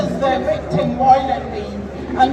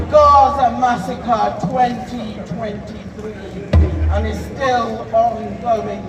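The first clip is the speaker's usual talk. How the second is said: in front of an audience. Acted. Declaims list of massacres over music.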